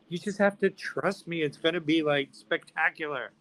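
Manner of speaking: high, emphatic sales pitch; insistent promise. Retold or imitated. Him persuading doubtful retailers, insistent and excited.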